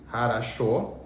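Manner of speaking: "хорошо" said "haraSHO", first two O as A; only the last O of "хорошо" stays O and is stressed; "хорошо" pronounced "haraSHO"; reduced O vowels. Shown as a demonstration. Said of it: "os outros dois se pronunciam como A".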